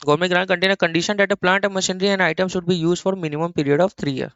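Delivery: reading aloud in a quick rush; rapid reading. Real, not acted. Teacher reading out the grant condition to students, rapid. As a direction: rattle through the written clause. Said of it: "मैं बहुत जल्दी जल्दी बोल रहा हूँ".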